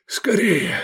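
urgent high whisper; exhaled urging. A narrator's reading. Wounded man urges rescuers on, breathless whisper. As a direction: push it out on a breath. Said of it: "выдохнул Лобанов".

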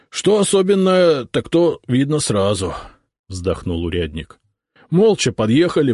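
lightly voiced rough provincial урядник, sighing; a hint of a tired wounded cossack; weary cossack урядник. Wounded урядник recounting the ambush, lightly voiced and weary.

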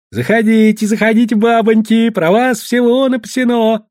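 high, sugary welcome from a sly trader; a lightly voiced merchant calling them in; fawning merchant. Merchant greets the women eagerly.

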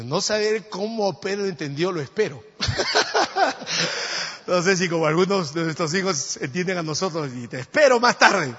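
loud, high laughing aside; laughing loudly. Real, not acted. Preacher laughing with the congregation at the joke.

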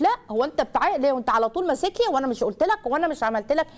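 a nagging mother's rebuke; scolding parent. Retold or imitated. Parent scolding crying child.

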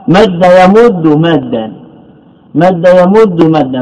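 slow, each word set apart for students; slow spelled-out forms. Shown as a demonstration. Teacher dictating the verb pattern to students, slow and deliberate. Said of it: "من باب نصر ينصر".

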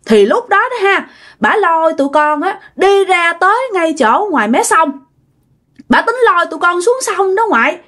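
put-on high, scared child recounting; child's voice. Boy tells grandma how the strange woman dragged them, high childish fear. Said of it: "Cái nó nói rằng bả".

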